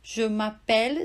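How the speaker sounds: je with a closed E, m'appelle with an open E; French je m'appelle. Shown as a demonstration. Teacher to student: French je m'appelle. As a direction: je m'appelle said carefully. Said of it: "ele é fechadinho".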